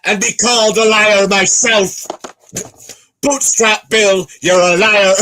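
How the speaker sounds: high, loud, drawn-out movie bellow; shouted pirate villain. Acted. Friend trading pirate film quotes, hammed-up loud shout. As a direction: roar it like a hammed-up pirate captain.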